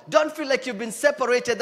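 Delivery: ordinary delivery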